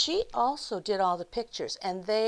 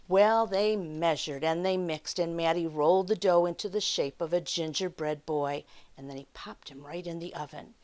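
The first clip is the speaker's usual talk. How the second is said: unhurried read-aloud for little listeners; children's story time narration. A narrator's reading. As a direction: tell it like a picture-book storyteller.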